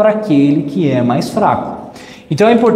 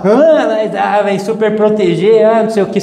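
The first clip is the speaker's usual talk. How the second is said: mock objection; 4 semitones higher than usual. Relatives objecting, parodied.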